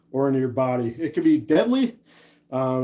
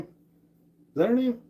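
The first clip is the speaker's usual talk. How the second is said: slow, much higher, sing-song question; sing-song repeat; 9 semitones higher, slower than usual. Pretend. Asking the stream chat about a name again, slow sing-song. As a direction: draw the question out, teasing and high.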